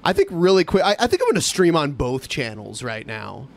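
high on weed; talking stoned; stoner. Real, not acted. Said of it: "because I'm high right now".

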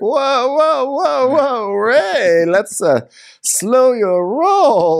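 high, hammed-up wife pumping the brakes; Karen. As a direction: warn him up high, stretching the last words. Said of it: "She's like".

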